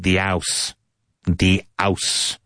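put-on London accent, "house" said without the H; London h-dropping. Imitating Londoners who drop the H. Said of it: "you hear people saying".

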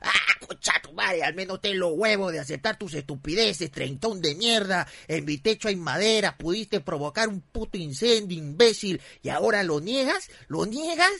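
mock-yell accusations, building to a high end; furious ranting. Man confronting neighbour who denies the rockets, re-enacted furious rant. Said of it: "envuelto en furia, concha su madre, gritaba".

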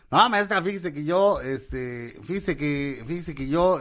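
hesitant pupil addressing the teacher; eager schoolboy. Acted. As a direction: stall for words like a keen pupil. Kid answers teacher in classroom joke.

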